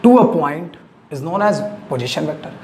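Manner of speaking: slow, spelled-out dictation; dictation pace. Shown as a demonstration. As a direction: read it out slowly for notes. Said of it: "A vector drawn from origin".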